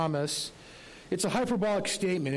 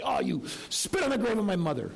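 lightly voiced haggling vendor, mock outrage; indignant market vendor. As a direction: play the offended seller, hammed up a touch. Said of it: "And the guy might say".

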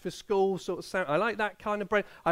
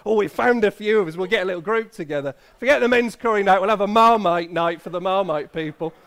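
fast, louder teasing impression of eager fans; mock Marmite fans; 6 dB louder, faster than usual. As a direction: rattle it off like a gushing club of fans. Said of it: "They're like".

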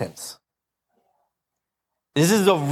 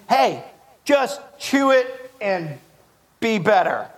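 much higher, slow, put-on preacher voice on just chew it; mock preachy advice; 4 semitones higher, slower than usual. Pastor mocking how church packages repentance, put-on smug voice. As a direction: lampoon a smug church telling you to swallow it.

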